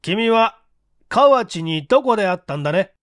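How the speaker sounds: the chief pressing the suspect; lightly domineering interrogator; high-handed question. Acted. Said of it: "高飛車に聞いた".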